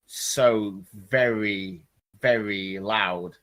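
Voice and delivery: "very, very" drawn out slowly; emphatic slow stress. A narrator's reading. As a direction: lean hard and slow on each "very". Narrator dwells on the song's loudness.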